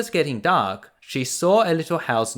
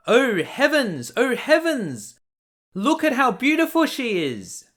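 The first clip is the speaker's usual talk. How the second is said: amazed dwarf; 10 semitones higher than usual. Acted. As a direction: marvel at the sleeping girl. Dwarf sees Snow White.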